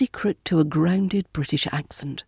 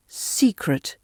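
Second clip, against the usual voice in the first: Secret with SE stressed, falling away; stress on first syllable. Shown as a demonstration. Teacher gives pronunciation tips, Secret stressed on the first syllable. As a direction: lean on the SE of Secret. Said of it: "emphasizing the C at the beginning".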